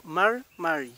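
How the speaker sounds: MAR MARI, first word cut to one syllable; fast-speech form. Shown as a demonstration. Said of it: "cuando se habla en forma rápida".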